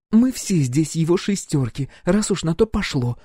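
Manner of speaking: put-on high young woman snapping back. Roxy snaps back at the captain, high voiced. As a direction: bite back at him, high and sharp. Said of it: "огрызнулась она".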